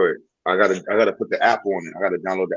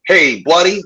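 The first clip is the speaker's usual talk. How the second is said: higher, louder hammed-up white American twang; mock white American accent; 9 semitones higher, 7 dB louder, slower than usual. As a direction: play a friendly redneck American accent. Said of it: "I got my American accent".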